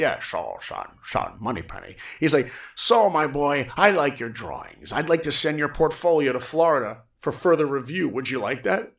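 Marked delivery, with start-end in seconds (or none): 0.2-2.0 mock old man. Friend mocks the old man's voice. 2.7-8.9 a hint of the old animator. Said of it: "He had the coolest voice".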